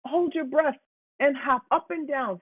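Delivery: Homer suggesting. A narrator's reading. Homer advising.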